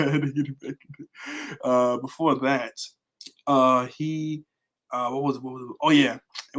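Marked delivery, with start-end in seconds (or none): 0.1-1.6 amused laughing repeat. Real, not acted. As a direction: say it again while laughing. Second take said laughing.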